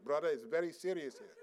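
grave imitation of an Indian accent; solemn warning in a lightly put-on Indian accent; earnest Indian brother, imitated. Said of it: "I'm trying to imitate how he said".

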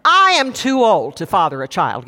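"I am" punched, mildly insistent quote; imitating an old man's emphatic "I am". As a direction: hit "I am" hard, then fall away. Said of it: "it's kind of an emphatic".

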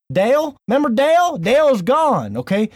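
high, loud and lively; excited callback. Real, not acted. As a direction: announce the big change with glee. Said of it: "that weird voice we had".

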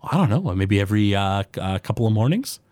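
a small forest gnome greeting a customer; gnome baker. Acted.

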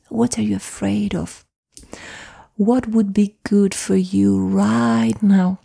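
put-on tender parent hugging a scared boy; gentle comforting parent. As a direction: soothe a frightened child. Gentle parent comforting crying child.

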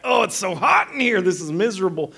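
retold hot-and-miserable grumble; miserable complaint. Complaining about heat at night.

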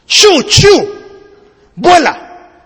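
commanding an eagle to take off; urging call. Acted. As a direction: shoo a bird into flight. Merchant urges the eagle to fly.

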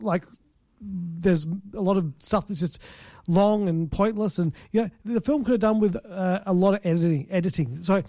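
speaking with a swollen tongue; slightly thick speech from a sore tongue. Real, not acted. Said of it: "my tongue is swollen ... I might sound a bit weird".

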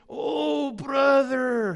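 put-on strong Latino accent. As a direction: imitate a Latino brother's heartfelt reply. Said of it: "he had a strong accent".

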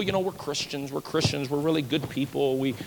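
lightly mocking pious boast; mock smug. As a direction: sneer at the self-righteous quietly. Mocking self-righteous church folk.

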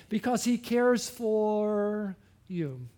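drawn-out, tender reassurance; slow tender emphasis. Shown as a demonstration. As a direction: linger on each word with care.

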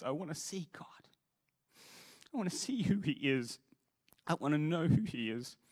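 real pleading, pitched high with emotion; heartfelt cry. Real, not acted. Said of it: "that's the cry of my heart".

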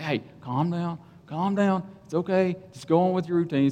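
soft, soothing reassurance; lightly acted, hushed calming voice. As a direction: gently talk someone down. Steward soothes the frustrated handler.

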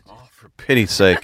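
exasperated with a laugh; laughing exasperation. Real, not acted. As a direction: sigh it out, laughing.

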